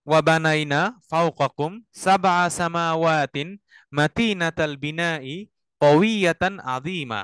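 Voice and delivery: very slow phrase-by-phrase chanted Arabic; recite to repeat. Shown as a demonstration. Teacher leads students to repeat after him. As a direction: chant each phrase slowly for students to echo.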